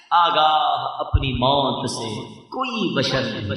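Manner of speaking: slow, soft recital of the line; soft verse recital. Shown as a demonstration. Preacher reciting a verse on death, soft and slow. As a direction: say the verse line slowly and softly first. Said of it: "شعر recited twice".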